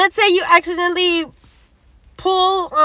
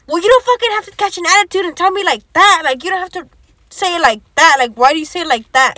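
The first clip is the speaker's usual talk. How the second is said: imitated indignant scolding, quick and raised; 2 semitones higher, 4 dB louder, faster than usual. He scolds her for catching an attitude, indignant.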